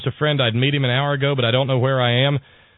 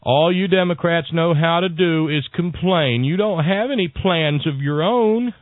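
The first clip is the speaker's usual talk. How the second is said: slow, slightly higher sneering complaint; mocking wingnut; 4 semitones higher, slower than usual. Host mimics cranky emailers, slow and a bit higher. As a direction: drag it out like a smug critic. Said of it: "one of the things I'm always hearing is".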